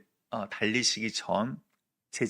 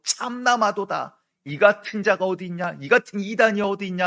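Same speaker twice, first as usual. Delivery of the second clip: loud, higher, outraged denunciation; accusers shouting; 6 semitones higher, 7 dB louder than usual. Retold or imitated. Officials tearing robes, shouting at Jesus that he is a heretic. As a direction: hurl the charge of heresy at him. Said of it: "옆에서 소리소리 지르면서".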